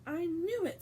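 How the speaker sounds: high, loud gleeful shout. Acted. Stan spotting Harry on the bus, gleeful shout. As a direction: crow with delight. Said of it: "Stan shouted gleefully".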